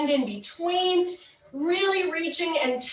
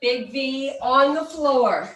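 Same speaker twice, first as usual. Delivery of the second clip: aerobics instructor. Acted. Counts and cues the steps.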